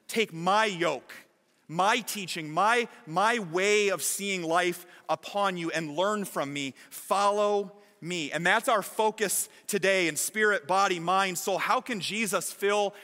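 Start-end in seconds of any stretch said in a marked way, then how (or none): 0.1-8.3 slow, gentle reading of Jesus' words; gentle invitation. Acted. Pastor reads Jesus' invitation slowly and gently. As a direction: invite them to rest, slowly. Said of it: "Jesus says".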